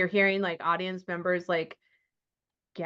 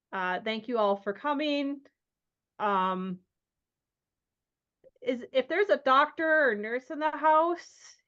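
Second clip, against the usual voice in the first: awkward announcement; 4 semitones higher than usual. Acted. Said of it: "awkwardly announces".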